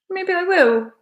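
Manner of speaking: put-on high-pitched playful Scottish accent; attempted Scottish accent. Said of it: "how could I do a Scottish accent".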